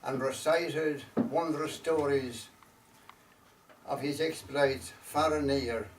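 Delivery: slow, measured storytelling verse with long pauses; unhurried recital, letting each phrase settle; poem recitation. Acted. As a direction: recite it line by line as a wistful Irish ballad-poem.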